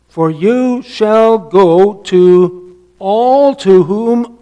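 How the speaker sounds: slow, weighty reading of the verse; preaching the text slowly and firmly; solemn scripture reading. Acted. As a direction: lean on every word like a proclamation.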